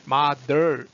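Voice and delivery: "mother" loud and drawn out with a curled r; curled-tongue R. Shown as a demonstration. Teacher warning against curling the tongue, exaggerated r in "mother". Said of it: "혀가 말려서 올라가지만 않으면".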